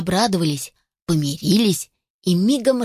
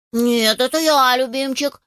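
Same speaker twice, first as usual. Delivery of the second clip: arguing chick; 4 semitones higher than usual. Acted. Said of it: "спорил другой".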